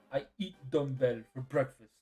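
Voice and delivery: put-on lightly done Russian accent; a hint of Russian accent. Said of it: "in a Russian accent".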